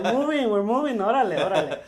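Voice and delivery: loud, high, hammed-up cheering; playful hype-man holler; mock celebration. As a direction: whoop it up over a tiny win. Mock cheer at tiny audience.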